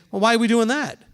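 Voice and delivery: "Well, why are we doing that?" pushed harder, falling at the end; skeptical challenge. Shown as a demonstration. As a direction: challenge it as if it's pointless. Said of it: "It sounds just like a tone of voice thing".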